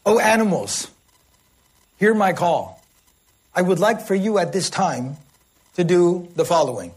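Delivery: lightly acted formal address to animals; mock-eloquent shepherd. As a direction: deliver a measured proclamation in separate phrases. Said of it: "started putting whole sentences together".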